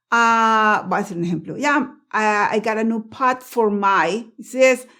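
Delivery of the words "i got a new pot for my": slow demo, "pot" stopped on a silent T before "for"; "pot" with no puff on its T; unreleased T. Shown as a demonstration. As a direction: hold back the T of "pot", then say "for". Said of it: "yo no exploté la T".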